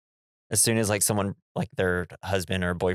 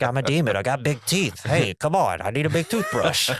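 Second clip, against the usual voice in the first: demon voice; 4 semitones higher than usual. Retold or imitated. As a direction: play a goofy demon brushing teeth. Voicing the demon in the movie.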